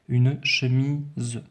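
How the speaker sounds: very slow, the S of "chemise" voiced as a buzzing Z; "chemise" said slowly with a clear Z; buzzed Z sound. Shown as a demonstration. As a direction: lean on the Z in "chemise". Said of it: "mon S va se prononcer Z".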